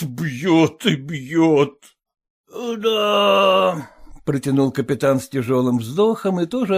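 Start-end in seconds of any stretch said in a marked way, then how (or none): none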